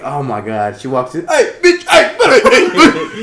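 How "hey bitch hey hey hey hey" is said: high-pitched, frantic repeated calling out; hammed-up, urgent high yelps; mimicked comedy bit. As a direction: act out a comic barging in on someone. Acting out Kevin Hart's bit.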